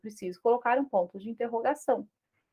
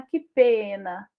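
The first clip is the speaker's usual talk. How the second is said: exclamation of pity; 4 semitones lower, much slower than usual. Shown as a demonstration. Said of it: "É uma emoção".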